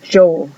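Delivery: Joe begun with a hard "dj"; stronger J. Shown as a demonstration. Teacher explains J to Spanish speakers, Joe with hard j.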